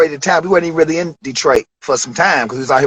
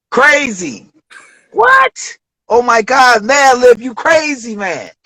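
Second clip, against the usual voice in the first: excited hype; 7 semitones higher, slower than usual. Retold or imitated. Rapper hyping up a friend's beats, excited. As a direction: hype it up like hearing a crazy beat.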